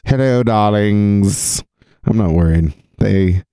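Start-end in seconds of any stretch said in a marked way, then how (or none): 0.0-1.6 campy drag queen. Acted. Greets chat like a diva.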